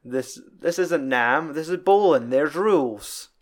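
slowed, stern imitation of Walter; half-hammed Walter scolding Smokey; Walter lecturing. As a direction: spell out the rules to Smokey.

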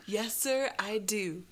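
loud, quick, insistent testimony; Mary Heister. Acted. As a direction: press the story on urgently. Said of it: "Anna Marie, Mary Heister".

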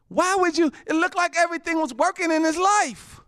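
high incredulous voice; puzzled, scoffing question; mock disbelief. Mocking incredulity at young man.

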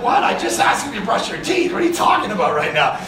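mock exasperated shouting dad. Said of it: "And it's like".

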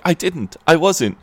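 high-pitched, pleading self-defence; mock panicked protest. Acting out Will's panicked protest.

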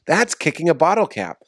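amused and giggling through the words; laughing. Real, not acted. A guest laughing at his own bottle cap kick. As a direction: laugh at yourself while explaining. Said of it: "That is so funny".

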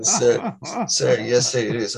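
snapping to attention, lightly voiced; a soldier answering a drill sergeant, mildly. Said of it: "The person goes like this".

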